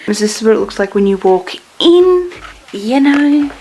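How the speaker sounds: talking through laughter; laughing. Real, not acted. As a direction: giggle through the words. Laughing after greeting Corey.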